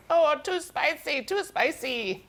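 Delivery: weak, slow Minnesota accent imitation; badly faked Minnesota accent. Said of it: "That's the worst Minnesota accent imitation".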